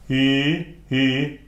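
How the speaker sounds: "I" as a held "ee" vowel; loud, isolated "I", sounded ee; open-throated I. Shown as a demonstration. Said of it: "saying I with the throat".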